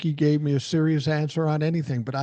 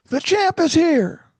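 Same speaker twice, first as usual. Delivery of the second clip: high, slow booming Ali boast, pitched way up; taunting the champ from behind a pillar, high and slow; Muhammad Ali; 13 semitones higher, 7 dB louder, slower than usual. Retold or imitated. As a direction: announce yourself like the greatest, drawn out and high. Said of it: "there's Muhammad Ali looking around the pillar".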